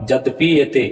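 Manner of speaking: "यद्यपि एते" clearly as two words, yadyapi ete; correct pronunciation. Shown as a demonstration. Teacher giving students the correct recitation, careful two-word reading. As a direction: separate "यद्यपि" from "एते" cleanly. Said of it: "तो यहाँ आपका उच्चारण होगा".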